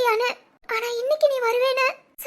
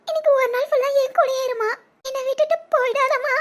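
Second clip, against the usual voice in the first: crying plea. Acted. Daughter begs mother to stay.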